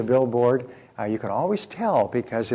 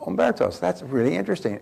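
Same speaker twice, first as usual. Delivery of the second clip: surprised recognition; 6 semitones higher than usual. Retold or imitated. Hearing friend's restaurant named Umberto's.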